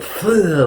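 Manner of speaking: sudden loud spluttering spit; mock spit-out noise; imitated spit-take. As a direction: mimic spitting out foul water. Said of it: "like that".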